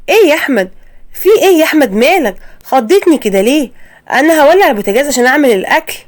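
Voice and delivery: high, alarmed questions; jumpy and startled, voice up high; wife startled as husband grabs her hand, alarmed. Acted.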